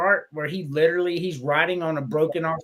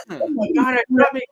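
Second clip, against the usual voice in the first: higher, louder imitated alarm; mock panic; 5 semitones higher, 4 dB louder, faster than usual. Fletch faking a bug attack for the cop, mock panic. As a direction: act out a hammed-up bug attack.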